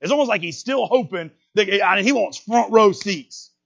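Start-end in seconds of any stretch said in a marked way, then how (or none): 1.7-3.5 slow, higher, savoring each word; drawn out. Acted. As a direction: stretch it like a treat. Savoring Jonah's wish.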